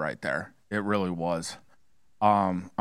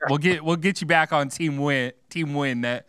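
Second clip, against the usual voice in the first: teasing consolation through a laugh, pitched up; higher, laugh-tinged ribbing; 7 semitones higher than usual. Real, not acted. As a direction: chuckle while promising a comeback. Host laughs consoling losing panelist.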